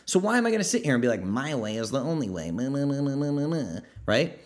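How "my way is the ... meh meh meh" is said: mock whiny know-it-all. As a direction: whine it like a smug bore. Mocking a rigid know-it-all.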